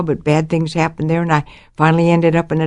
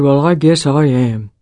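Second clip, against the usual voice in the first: slow, slightly lowered man's voice; acted father's reply; 3 semitones lower, slower than usual. Father answering the girl at the bus station, slow and measured. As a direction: lightly voice a man answering slowly.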